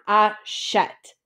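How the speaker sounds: "A chet" in two separated beats, ending brought down; French pronunciation demo. Shown as a demonstration. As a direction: model "A chet" for learners with an open e. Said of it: "bring our ending down".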